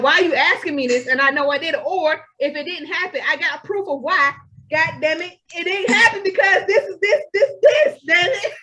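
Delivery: hammed-up defensive rant breaking toward laughter; exasperated protest. Host acting out defending herself when questioned, exasperated.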